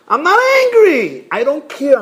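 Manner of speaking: high, loud protest; emphatic denial. Acted. Detached child denies being angry, loud protest. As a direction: burst out high, then ease off.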